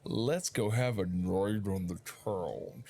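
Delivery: hypnotized, dragged-out repeat of the invite; a hint of a hypnotized trance; dazed echo. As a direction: echo it like you're entranced. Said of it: "the moment he says that... he's like".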